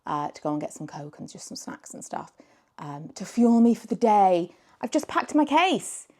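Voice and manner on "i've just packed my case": excited. Real, not acted. Asks for applause after announcing.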